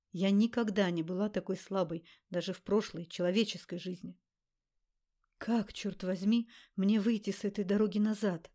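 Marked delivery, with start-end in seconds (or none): none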